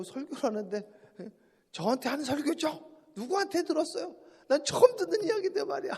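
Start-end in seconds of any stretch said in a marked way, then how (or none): 1.7-5.9 suspicious congregant. Retold or imitated. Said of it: "어떤 분은 그러시더라고".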